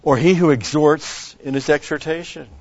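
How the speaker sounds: verse read out loud and high, stressing he; loud emphatic reading. Real, not acted. Pastor reading verse aloud to congregation, loud proclaiming.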